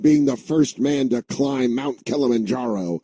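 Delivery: high, exasperated father rant; ranting Tom Hanks. Retold or imitated. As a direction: snap at the son like a fed-up dad. Tom Hanks yelling at son.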